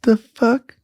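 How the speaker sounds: high, bewildered mock guard voice; a guard squinting at the cameras, baffled; confused guard. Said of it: "Some guy ... all like".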